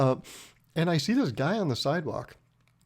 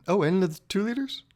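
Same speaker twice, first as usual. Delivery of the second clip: higher, mock-surprised rising question; acting surprised; 6 semitones higher than usual. Customer asking pizza guy about soda, acting surprised. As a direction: pretend this is news to you. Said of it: "I had to act surprised".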